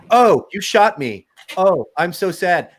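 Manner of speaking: slow, high, prissy mock sadness; lightly mock a too-nice kid gamer; mock polite gamer kid. Dad mocking kids' imagined polite chat, slow and high. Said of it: "You think they're talking like".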